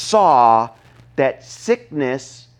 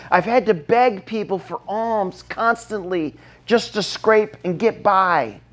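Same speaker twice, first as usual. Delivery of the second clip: higher-pitched, mildly pleading appeal; acted crying out; 5 semitones higher than usual. Outcast blind man begging Jesus, lightly acted plea. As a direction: plead for mercy in a raised pitch. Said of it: "shouting from the rooftops".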